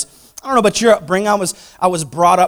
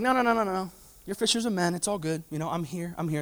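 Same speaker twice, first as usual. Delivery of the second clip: reassuring Jesus; 12 dB quieter, faster than usual. Retold or imitated. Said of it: "He's like".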